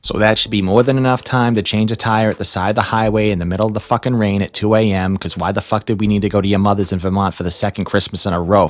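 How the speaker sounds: broad Boston accent, salty asides; crusty Boston guy reading a script. Shown as a demonstration. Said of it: "in my native Boston accent".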